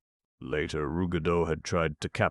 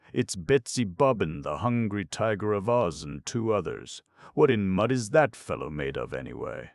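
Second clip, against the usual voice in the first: excited; 5 semitones higher, 4 dB louder than usual. Acted. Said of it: "pointed excitedly at the wall".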